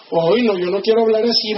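rising, whiny complaint about a speaker; mock disdain. Listener rejecting a plainer speaker, mock disdain. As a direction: turn your nose up, climbing into the question. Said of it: "Llega otro que habla más feíto".

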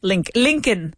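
Lincoln broken off at Link, then LINK-un; pronunciation model. Shown as a demonstration. Teacher correcting student, Lincoln as LINK-un. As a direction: say "Lincoln" like LinkedIn without the D. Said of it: "pero sin la D".

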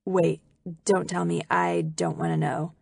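ordinary delivery

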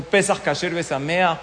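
"Pesach Kasher Besameach" with throaty ch endings, crisp Hebrew; proper Hebrew pronunciation. Retold or imitated. The woman shows off her Hebrew greetings, careful pronunciation. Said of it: "pero así bien pronunciado".

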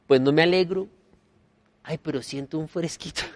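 mock pious denial with a sly relief; hypocritical. Imitating someone pretending not to gloat, hypocritical. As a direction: fake sorrow, secret glee. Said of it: "de una manera un poco hipócrita dice".

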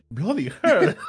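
mock-English exclamation breaking into laughter; amused, imitated genteel shock; imitating polite Englishman. Friends repeating their inside joke, mock polite Englishman. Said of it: "nosotros decimos".

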